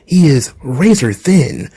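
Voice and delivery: formal and courteous, a touch low; Keith Lee impression. Keith Lee answering Andrade's offer, mild low formal voice. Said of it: "Andrade trying to recruit Keith Lee".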